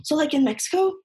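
high, sing-song ignorant classmate voice; high-pitched mock schoolgirl; mocking a clueless girl. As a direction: mimic a naive girl asking a dumb question. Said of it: "She was like".

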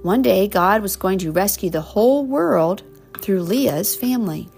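put-on reading to children. Reading picture book to child.

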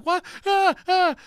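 high, loud panicked yelps; imitating a scared child. Retelling his frightened daughter's cry, mock panicked yelps. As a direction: mimic the eight-year-old crying out in fright. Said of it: "She's freaking out".

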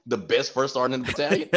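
proud line said through a laugh; laughing boast. Retold or imitated. Answering another first sergeant, laughing as he boasts. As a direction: brag it while laughing. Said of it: "I told him".

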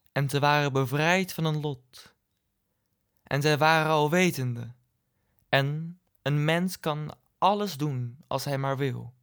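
measured poetry reading with pauses between verses; poem recitation. Acted. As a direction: recite it line by line, pausing after each. Draagt eigen gedicht voor.

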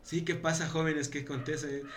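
put-on soft, polite older woman's voice; old lady at the door. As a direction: answer the door gently, puzzled.

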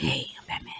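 low, hushed Batman rasp; whispered Batman voice. Retold or imitated. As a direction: breathe it like a quiet Batman. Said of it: "like, a whisper Batman voice".

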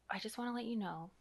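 calm, soft-spoken polite complaint. Acted. Customer politely tells the manager about bathrooms, very calm. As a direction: say it softly and politely, keeping very calm. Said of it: "in a very calm voice".

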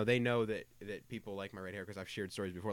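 normal talking voice

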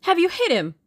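high, loud excited question; eager cry. A narrator's reading. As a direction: ask eagerly, voice leaping up. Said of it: "cried Tuppence eagerly".

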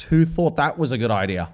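hammed-up holler into the room; mock shouting. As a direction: call it out as if to the whole pub. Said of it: "just shout random shit into the atmosphere".

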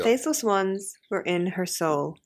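attempted general American reading; generic American accent. Shown as a demonstration. Host reading book's first line on request in American accent. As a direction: read it in a non-specific American accent. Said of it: "say something in Generican".

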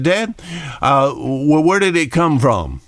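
a hint of a wondering child; little boy asking. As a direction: ask like a small boy puzzled by the new baby. Little boy asks his dad.

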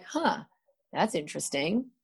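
intrigued little huh; a curious, soft huh; mild surprise. Retold or imitated. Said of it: "you may be like".

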